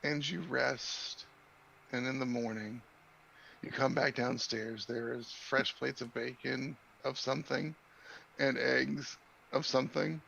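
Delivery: unhurried game master narration, with long pauses; scene setting. Acted. Game master moves the players from night to breakfast, slow scene setting.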